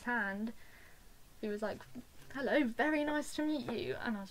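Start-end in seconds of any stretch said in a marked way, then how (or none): 2.3-4.0 star's greeting. Retold or imitated.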